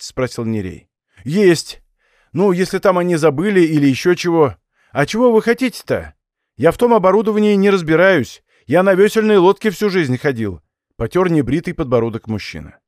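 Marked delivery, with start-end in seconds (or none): 1.2-10.6 put-on higher, louder old villager voice; old watchman voice. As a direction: play a simple old watchman.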